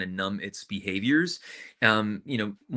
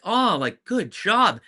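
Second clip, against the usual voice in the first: higher and louder, gushing mock praise; proud parent voice; 9 semitones higher, 5 dB louder, slower than usual. Retelling how parents turned proud mid-routine, higher gushing voice. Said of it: "to, like".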